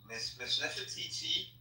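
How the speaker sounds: grand announcement. Acted. Slow grand introduction.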